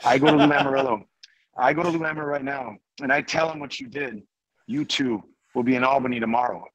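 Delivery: imitating a French-accented teammate's threat; lightly done French accent, firm warning; attempted French accent. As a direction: issue an ultimatum in a loose French accent. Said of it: "trying to do a French accent".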